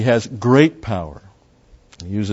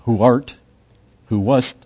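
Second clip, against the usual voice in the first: grand archaic "Who art, who wast", said louder; lofty old-fashioned reading; mock Old English; 5 dB louder than usual. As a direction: ham up the King James wording. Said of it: "go back to the Old English and go".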